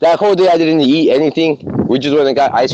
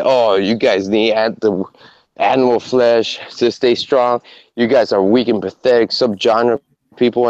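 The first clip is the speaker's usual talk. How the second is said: mock YouTuber lecture; 4 semitones lower than usual. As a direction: talk down to the bros like a smug lecturer. Mocking the vegan YouTuber's lecture.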